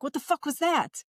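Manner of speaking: high, startled mock Ilya voice. Retelling a TV scene to podcast friends, mock startled Ilya. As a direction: imitate Ilya freaking out at a noise. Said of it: "Ilya's like".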